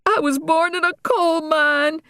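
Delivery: put-on sick-and-tired teenage rant. Daughter complaining to her family, mildly exasperated. Regina voiced, much higher.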